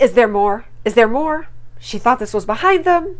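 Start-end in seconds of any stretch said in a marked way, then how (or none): 0.0-1.5 retold demand. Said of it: "She's like".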